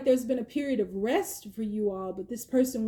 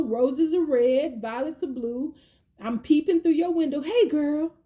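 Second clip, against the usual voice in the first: mock creepy love poem; 4 semitones higher, 3 dB louder than usual.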